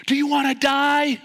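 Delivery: high loud urgent question; fierce challenge. Retold or imitated. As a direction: shake sense into him. Instructor confronting swimmer.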